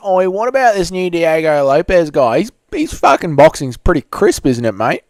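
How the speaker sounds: lightly exaggerated Aussie accent; mock Aussie viewer. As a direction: read it out as an Aussie bloke. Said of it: "A Aussie says".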